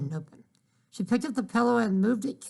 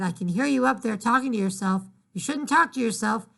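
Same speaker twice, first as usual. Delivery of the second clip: calling up; 3 semitones higher than usual. Acted. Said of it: "her mother shouted".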